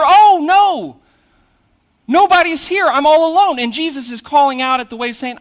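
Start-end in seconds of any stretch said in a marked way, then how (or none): 0.0-3.6 high, loud, hammed-up panicked wail; hammed-up fearful cry, much higher and louder; mock panic. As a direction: play the scared disciple crying out, alone in the storm. Frightened disciples voiced.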